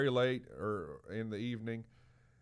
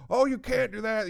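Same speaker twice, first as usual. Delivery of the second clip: high, loud mock protest; imitating pleading family; 12 semitones higher, 8 dB louder than usual. Family grabbing hold of the departing man, pleading. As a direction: cry out to stop him leaving. Family begs him not to leave.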